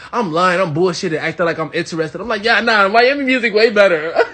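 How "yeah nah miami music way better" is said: laughing bluff. Retold or imitated. Fake-interested bluff, laughing.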